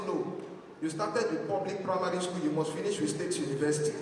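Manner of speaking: lightly voiced strict papa refusing; stern papa.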